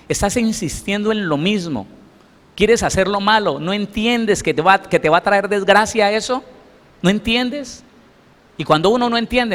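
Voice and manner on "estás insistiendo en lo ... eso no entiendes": higher, pressing divine rebuke; God warning. Retold or imitated. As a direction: plead urgently as God warning. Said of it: "el Señor le dice al cristiano".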